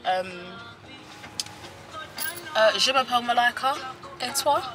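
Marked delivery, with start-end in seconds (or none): 2.8-4.6 French phrase. Shown as a demonstration. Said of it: "Okay, so".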